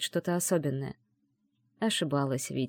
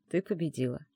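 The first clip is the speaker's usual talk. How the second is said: soft whispered words; 2 semitones lower, 6 dB quieter than usual. Acted. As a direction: whisper it, softer. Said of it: "прошептал Гром".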